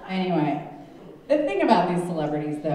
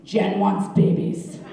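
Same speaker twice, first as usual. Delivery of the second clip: loud, emphatic mock tabloid headlines; shouted headlines; 8 dB louder than usual. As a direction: blare it out like desperate magazine covers. Shouting out imagined magazine headlines.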